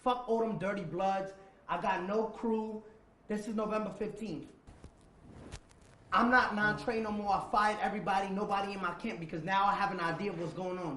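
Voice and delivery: 1 angry rant. Retold or imitated. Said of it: "I said".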